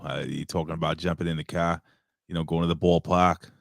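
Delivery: low-key Boston accent. Shown as a demonstration. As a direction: casually drop into Boston speech. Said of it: "a Boston accent".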